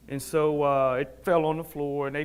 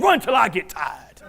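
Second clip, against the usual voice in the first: loud, raised-pitch command; coach's shouted order; 5 semitones higher, 5 dB louder than usual. Retold or imitated. Coach sending injured athlete round the track, shouted command.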